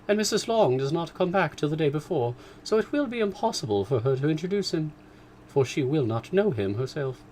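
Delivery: mother complaining about Missus Long; indignant mother. Acted. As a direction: huff about the neighbour. Mrs Bennet voiced.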